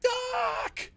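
very high, far-off anguished cry; desperate shout. Acted. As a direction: scream for the doctor from down the hall. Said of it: "And then you hear".

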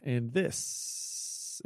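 playful Southern drawl on the host intros; little Southern accent. Pretend. Host introducing the show in a mock Southern accent. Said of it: "I was doing the little Southern accent".

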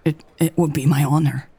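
halting, choked-up stammer. Acted. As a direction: stumble over the first word. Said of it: "Lex stammered".

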